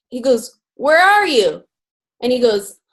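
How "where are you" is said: higher, drawn-out mock call. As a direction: search for someone by calling, lightly acted. Husband calls out to unseen man.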